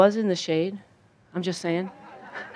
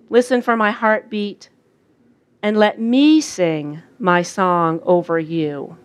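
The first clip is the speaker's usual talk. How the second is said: voice of God; 2 semitones higher than usual. Retold or imitated. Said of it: "I heard God say this".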